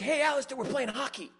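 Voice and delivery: high, loud mock holler; calling out. Hockey buddies summon Alistair to play, calling out high. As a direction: imitate pals hollering an invitation.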